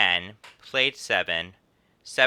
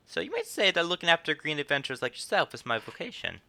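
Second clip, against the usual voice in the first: a hint of a welcoming guild host; lightly voiced innkeeper; 2 semitones higher than usual. Innkeeper greets a new adventurer, lightly voiced. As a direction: lightly act the chatty innkeeper. Reads innkeeper Momodi's lines.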